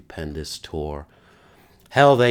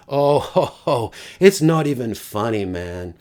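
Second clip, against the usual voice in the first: put-on higher, louder Indian-accented exclamation; 4 semitones higher, 4 dB louder than usual. Young fan in Mumbai, asked if he was happy, Indian accent. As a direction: imitate an excited fan's Indian accent, easing off at the end. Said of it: "in that distinct Indian accent".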